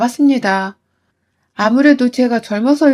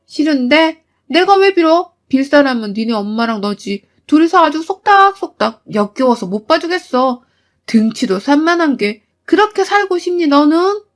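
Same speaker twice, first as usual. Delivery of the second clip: defiant retort; 3 semitones higher than usual. Acted. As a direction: sneer back at him with contempt. 아내가 남편에게 맞받아침. (남편을 비웃으며 쏘아붙이는 아내)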